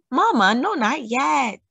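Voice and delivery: put-on high, pleading child; begging. A narrator's reading. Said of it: "begged Dahlia".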